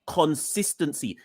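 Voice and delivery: "consistency" repeated slowly as one deliberate word; stressed CONSISTENCY. Real, not acted. Pundit repeating the key word, "consistency" slow and emphatic. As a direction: set "consistency" apart and draw it out. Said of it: "I'm stressing that word".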